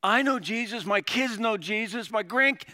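loud, high, insistent testimony; emphatic believer. Retold or imitated. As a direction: retell their words with ringing conviction. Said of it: "What I hear is".

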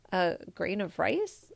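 slow, rising disbelieving question; can't believe what he heard; puzzled question. Acted. Emperor repeats the peasant's request, puzzled rising. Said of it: "repeated the emperor".

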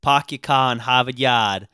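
lightly imitated Boston accent; Boston-accented catchphrase; mock Boston accent. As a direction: drop the R's like a Bostonian. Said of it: "when someone says".

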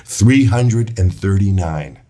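slowly and deliberately, spacing out the words; measured, drawn-out restatement with a pause midway; slow repeat. Real, not acted. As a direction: say the number slowly so it sinks in. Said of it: "say that number again slowly".

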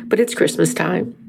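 crying with a runny nose. Real, not acted. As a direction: speak through tears. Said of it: "I'm crying".

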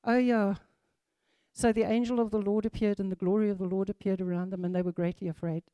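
fast, soft, unimpressed skim through the verse; bored rushed reading. Retold or imitated. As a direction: rattle it off like it's nothing special. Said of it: "we read that and we're like".

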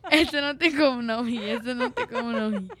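words through giggles; laughing while talking. Real, not acted. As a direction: talk while still laughing. Laughing at joke.

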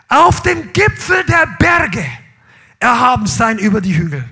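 preacher booming out a Bible verse; proclaiming scripture. Acted. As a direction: call the verse out over the congregation.

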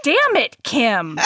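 playful mock outrage at a friend; mock exasperation. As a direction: grumble at her like she's impossible.

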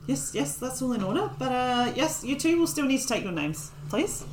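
a hint of a fussy, high gnome official; officious gnome. Gnome gatekeeper checks visitors' papers, mildly officious.

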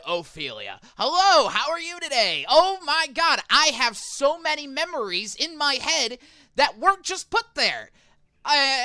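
high, loud, overeager merchant with implanted memories; dazed merchant. Acted. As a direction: greet her like a best friend you never had. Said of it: "and he goes".

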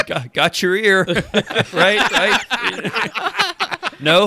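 awkward hopeful asking; nervously hopeful upturn; sheepish hopeful. Acted. Hero offers severed ear.

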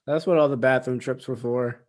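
repeating it through a laugh. Real, not acted. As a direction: chuckle while saying it. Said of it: "What'd you say?".

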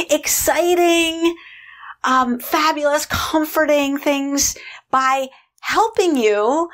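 high, drawn-out, gushing delight; eyes lit up. Retold or imitated. Inner food indulger gushing about her role, excited. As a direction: stretch the words out high with delighted enthusiasm. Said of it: "her eyes lit up and she said".

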